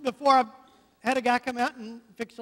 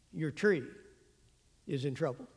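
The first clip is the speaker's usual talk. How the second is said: grim verdict; 8 semitones lower, 10 dB quieter than usual. Retold or imitated. Tree guy's grim verdict.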